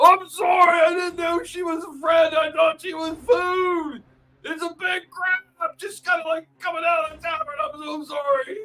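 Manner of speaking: put-on ogre voice. Voicing the ogre during a fight scene: put-on ogre voice. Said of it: "you can hear the ogre going".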